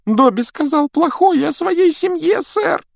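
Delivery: high squeaky elf voice, far from own; a small timid house elf. Acted. Домовик Добби говорит. (писклявый голос домового эльфа)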